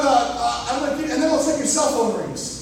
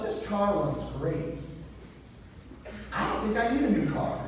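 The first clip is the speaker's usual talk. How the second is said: smug self-talk; 4 semitones lower, 9 dB quieter than usual. Retold or imitated. Talking to himself in rearview mirror.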